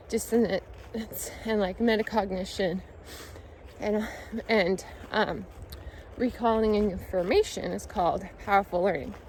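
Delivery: breathless after a run; winded, catching breath. Real, not acted. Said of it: "I'm really out of breath".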